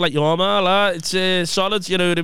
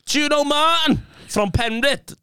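high-pitched questioning mum; raised pitch, imitating mum's question; 6 semitones higher than usual. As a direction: mimic mum quizzing a stranger. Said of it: "And I said to him".

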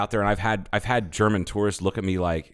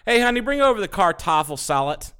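southern redneck; 10 semitones higher than usual. Pretend. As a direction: call for Kartoffel salad like a southern redneck. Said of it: "it would be like".

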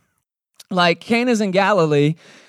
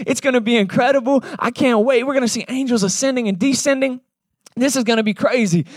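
hyped, a bit higher, eager; pumped up; 6 semitones higher than usual. Retold or imitated. Disciples hyping each other about the mission, eager and pumped. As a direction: talk like you can't wait for the mission. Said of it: "I'm sure they're getting pumped".

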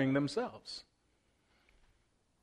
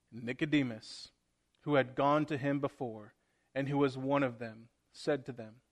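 scripture reading; 2 semitones lower than usual. Acted. Pastor reading John aloud to the church, measured and steady. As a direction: read the passage steadily to the congregation.

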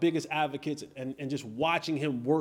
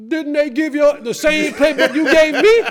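Roy's retort; 8 semitones higher, 11 dB louder than usual. Retold or imitated. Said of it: "told him".

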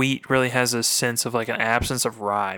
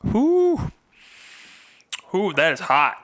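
gasping from the burn; 6 semitones higher, slower than usual. Real, not acted. Reacting to alcohol burn.

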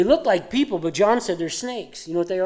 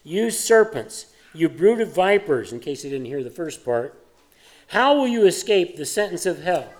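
Jesus rebuking. Retold or imitated. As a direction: make it the most scathing rebuke. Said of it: "he says".

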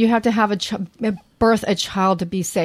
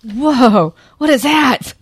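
surprised; 5 semitones higher, 5 dB louder, much slower than usual. Retold or imitated. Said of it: "him thinking".

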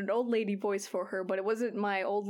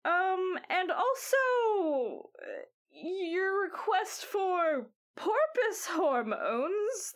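put-on old lady voice; 2 semitones higher than usual. GM voices Granny Foam.

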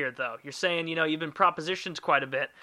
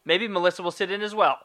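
firm statement; 4 semitones higher, 5 dB louder than usual. Shown as a demonstration. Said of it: "I just have to phrase it differently".

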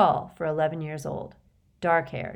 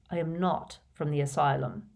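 patient; 2 semitones lower than usual. Acted. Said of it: "said Dumbledore patiently".

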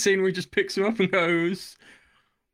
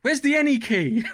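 confused user; 9 semitones higher, 4 dB louder than usual. Retold or imitated. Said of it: "you're looking for the fucking".

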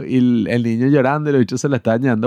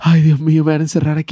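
mock panic; 5 semitones higher than usual. Retelling his fear in the airport bathroom, mock panicked. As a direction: gasp it like someone about to be locked up. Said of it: "y yo que".

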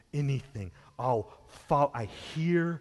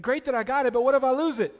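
worried listener; 11 semitones higher, 7 dB louder, faster than usual. Retold or imitated.

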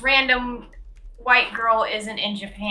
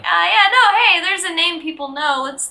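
higher, louder start easing down; mock studio casting chatter; 5 semitones higher, 4 dB louder than usual. Imagined filmmakers deciding to throw in a known actress, mock eagerness. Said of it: "they were just like".

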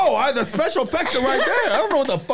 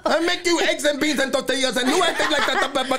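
higher voice, laughing through the words; 6 semitones higher than usual. Real, not acted. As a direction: keep laughing while teasing. Laughing at partner's voice.

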